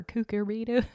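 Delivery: "Cucurbita" tried out as a rising question; questioning stab at "Cucurbita"; unsure pronunciation. Real, not acted. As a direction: sound out "Cucurbita" doubtfully, BAY for the third syllable. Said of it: "I don't know exactly how to pronounce it".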